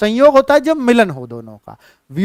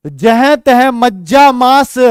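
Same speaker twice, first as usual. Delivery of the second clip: slow, louder recital of the line; verse recitation; 2 semitones higher, 3 dB louder, slower than usual. Shown as a demonstration. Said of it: "बेटा जह तह मज्जा मांस". (काव्य पाठ की लय में)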